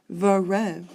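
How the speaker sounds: "Vero" in two beats, cut before the last syllable; word cut mid-way. Shown as a demonstration. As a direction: sound out "Vero" as a metrical foot. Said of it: "gotta go right in the middle of Verona".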